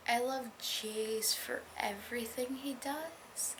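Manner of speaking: slow, gushing whisper; whispered fangirl gush. Real, not acted. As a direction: confess it in a whisper. Whispered gush about a character.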